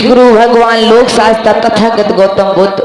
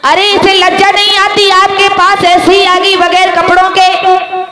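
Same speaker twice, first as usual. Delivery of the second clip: pitched-up, lightly acted protest; scandalized monk; 5 semitones higher than usual. Monk complains to Buddha about her, mildly scandalized. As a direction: object aloud in a higher voice. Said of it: "भिक्षु संग बैठे हुआ था कहने लगी".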